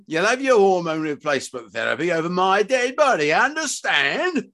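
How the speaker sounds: high, forceful ultimatum; furious father, rising to a high demand; bellowed refusal. Acted. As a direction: lay down the law to your son. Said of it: "He bellowed".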